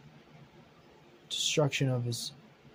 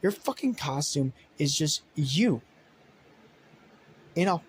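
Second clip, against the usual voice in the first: irritated rant; 2 semitones higher than usual. Acted. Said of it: "It's like".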